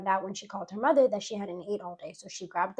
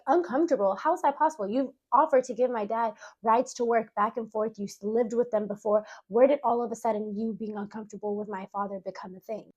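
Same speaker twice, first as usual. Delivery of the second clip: incredulous. Retold or imitated. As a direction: throw the word back in shock. Friend claims discomfort; Tamia disbelieving.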